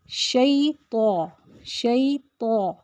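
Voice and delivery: شیطو slowly with a heavy ط. Shown as a demonstration. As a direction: stretch شیطو, thick ط. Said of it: "تا کو صرف ہمیں heavy رکھنا ہے". (شیطو میں ط کو موٹا)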